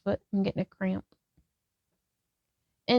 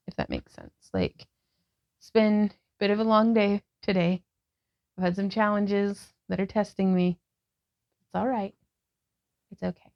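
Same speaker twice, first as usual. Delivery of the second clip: guided yoga instruction; 2 semitones lower than usual. Acted. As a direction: talk the class through each pose gently. Leads a yoga class.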